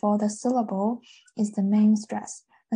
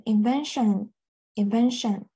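"invention" stressed on its second syllable, -ven-; stress unchanged; slower than usual. Shown as a demonstration. Teacher showing the noun keeps its stress, "invention" stressed on -ven-. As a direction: keep the weight on -ven- in "invention". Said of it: "这个重音也是没变".

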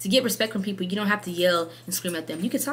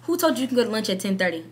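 questioning platoon sergeant; 4 semitones higher than usual. Retold or imitated. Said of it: "the platoon sergeant said".

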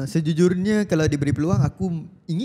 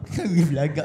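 laughing tease; slower than usual. Real, not acted. Teasing friend while laughing.

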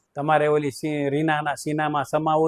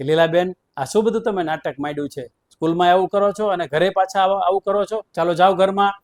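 raised pitch, a teacher's scolding; rising exasperated rebuke, higher and louder; mock scolding; 3 semitones higher, 4 dB louder than usual. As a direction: tell her off like a headmaster. Principal scolds the stubborn wife.

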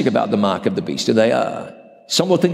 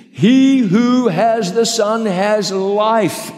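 solemn scripture reading; 6 semitones higher, slower than usual. Retold or imitated. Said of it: "John wrote".

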